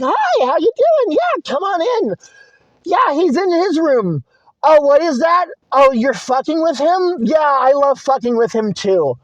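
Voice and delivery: high, bright mock-cheerful parents; parents' breezy welcome. Parents greeting the stepfather at the door, mock-cheerful. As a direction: gush like carefree parents. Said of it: "my parents are just like".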